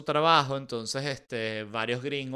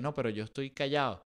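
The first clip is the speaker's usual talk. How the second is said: timid mumble; 5 dB quieter, faster than usual. Acted. Shy Japanese man answers.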